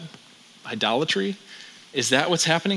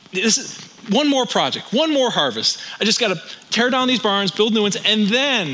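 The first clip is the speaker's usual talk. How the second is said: lightly acted higher-pitched, eager promise; man in the parable; 5 semitones higher than usual. Stressed barn builder putting off rest, lightly acted and higher. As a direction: lightly play someone bargaining for one more. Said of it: "the man in the parable is one of these people".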